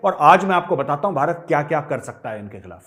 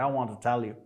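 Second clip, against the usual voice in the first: mocking fake Canadian accent, softer; 4 semitones lower, 8 dB quieter, much slower than usual. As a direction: put on a phony Canadian accent to sneer at the caller. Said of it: "fake Canadian accent में". (नकली Canadian लहजे में चिढ़ाते हुए)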